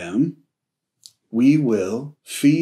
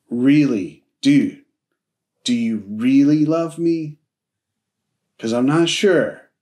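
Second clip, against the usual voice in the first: doubtful questioning. Retold or imitated. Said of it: "is kinda how it sounds".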